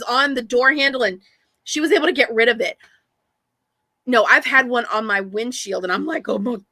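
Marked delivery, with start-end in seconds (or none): 6.3-6.6 drawn-out mock wail; slow, hammed-up dismay; retold dismay. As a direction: stretch it slowly into a wail. Retold spider on windshield.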